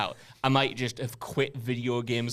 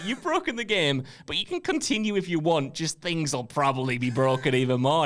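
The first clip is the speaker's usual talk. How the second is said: game message voice; 2 semitones higher than usual. Retold or imitated. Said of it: "but it said".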